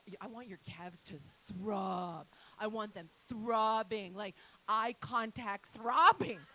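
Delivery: slow, drawn-out seductive coaching voice; mock sultry trainer. Comic mimicking the gym trainer, slow and seductive. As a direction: lean into each throbbing, slow and breathy.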